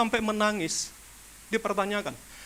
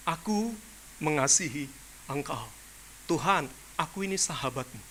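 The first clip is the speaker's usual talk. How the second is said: lower, softer, lip-service answer; half-hearted reply; 8 semitones lower, 9 dB quieter than usual. Retold or imitated. Peter answering Jesus without heart, low and soft. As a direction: mumble it as if you don't mean it.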